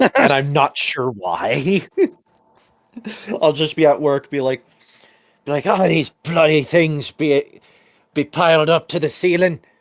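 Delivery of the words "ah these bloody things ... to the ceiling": full, stressed-out pirate voice. Explaining how they slip into it when stressed at work: Skirvo pirate voice. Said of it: "Why am I talking like the pirate?".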